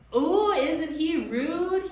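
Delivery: high, loud, slow mock-shocked squeal; delighted scream. A narrator's reading. Gaboon delighted by Tom, screaming. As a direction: squeal it with glee. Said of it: "he screamed".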